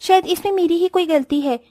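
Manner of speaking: lightly voiced bride realising her mistake; remorseful young bride. Vedika voiced, regretful.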